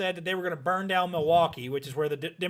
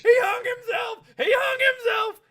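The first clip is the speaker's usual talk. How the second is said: much higher, louder, slower alarm cry; mock panicked yell; 5 dB louder than usual. Cousin running in to raise the alarm, mock panicked yell. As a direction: shout it like a scared kid raising alarm.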